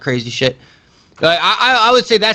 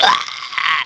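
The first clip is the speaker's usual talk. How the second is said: mock villain scream. Retelling the villain's scene to a co-host, drawn-out mock scream. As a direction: draw out a mock movie scream. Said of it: "he's like".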